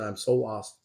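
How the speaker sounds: quiet, a touch of tears; tearful. Retold or imitated. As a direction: echo a lost girl's tearful plea. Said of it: "She had tears on her eyes".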